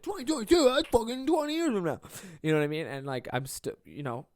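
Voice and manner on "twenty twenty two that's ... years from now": high, loud shocked squeal at the date; incredulous disbelief. Retold or imitated. Retelling his reaction to a two-year wait, high incredulous squeal. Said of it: "And I'm like".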